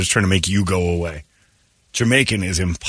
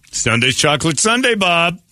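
put-on Jamaican accent; 8 semitones higher than usual. Imitating Jamaican talk.

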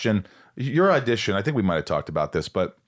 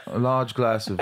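mock English accent; 4 semitones higher than usual. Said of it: "on dates going".

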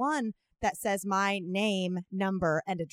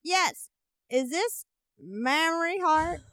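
put-on slow, higher old man voice; lightly voiced elderly caller; 6 semitones higher, slower than usual. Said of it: "It's a very old man".

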